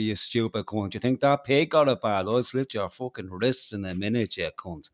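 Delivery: mock threats in old Dublin accent. Shown as a demonstration. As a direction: play a menacing old-school Dub. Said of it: "talk from the old Dublin accent".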